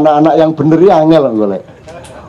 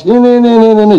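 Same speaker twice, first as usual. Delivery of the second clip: child reading mockingly; 4 semitones higher, much faster than usual. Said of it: "setiap kalimat tuh digituin".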